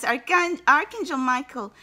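ordinary delivery

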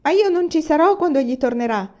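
upset daughter crying out; 1 tearful wail. Acted. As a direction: wail it at mother.

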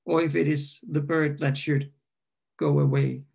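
measured, deliberate poem reading; poetry reading. Acted. Poem read aloud.

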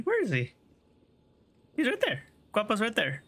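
high, sing-song voice for the dog; high pet voice. Real, not acted. Streamer coos at her in-game dog, high and sweet.

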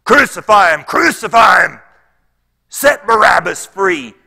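full-force high mob shout. Acted. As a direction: shout it out as the insistent crowd. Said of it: "they shouted all the more".

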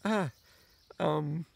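high, loud, slow through laughter; can barely speak for laughing. Real, not acted. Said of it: "I can't stop laughing".

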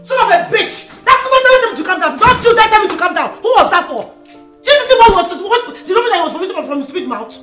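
high, shrill outraged yelling; indignant rant. Acted. Rose ranting to her husband about his brother, outraged. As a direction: vent at your husband, outraged.

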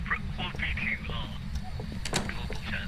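tinny walkie-talkie radio voice; toy walkie talkie. Real, not acted. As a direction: talk through a crackly handheld radio. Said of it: "Why are you talking on the walkie-talkie".

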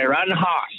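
"hoss" said with a broad Boston vowel for horse. Retold or imitated. Coach quoted saying "hoss" in a Boston accent. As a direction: repeat "riding a hoss" the way the coach said it, "hoss" with no r. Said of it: "that's what he said".

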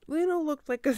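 reader loses it and laughs mid-line; real laughter cutting off the sentence; breaking into laughter. Real, not acted. Reader cracking up at the book, laughing.

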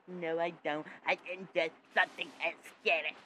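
shouted denial; loud defensive retort. Acted. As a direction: fire back loudly.

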